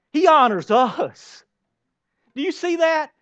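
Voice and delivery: high, slow, full voice; amazed exclamation; awed emphasis. Real, not acted. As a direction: marvel at it aloud. Preacher marvelling.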